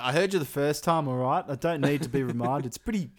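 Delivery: fed-up retort. Pretend. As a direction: snap back like you've heard it a hundred times.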